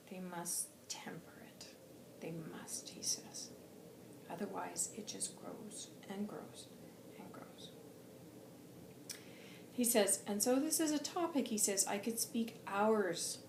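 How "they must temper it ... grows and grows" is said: hushed warning. Retold or imitated. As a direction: lean in and whisper the warning. Hushed warning about growing hurt.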